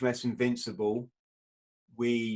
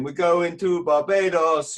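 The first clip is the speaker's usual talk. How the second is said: imitating the ship's radio; 6 semitones higher, 8 dB louder than usual. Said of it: "the ship's radio was playing".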